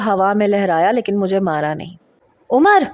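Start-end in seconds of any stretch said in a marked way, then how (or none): 2.5-2.8 a loud, high angry roar of a name; furious roar. Acted. Father-in-law roaring at his son for raising a hand, furious. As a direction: bellow the son's name in fury. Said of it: "بڑے غصے سے دھاڑتے ہوئے کہا".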